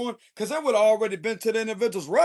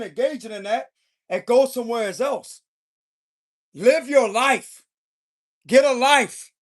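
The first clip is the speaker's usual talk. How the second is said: irritated telling-off with punched key words. Acted. Tarot reader voicing the King of Swords' warning, irritated. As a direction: lay down the law, fed up. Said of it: "but he's irritated".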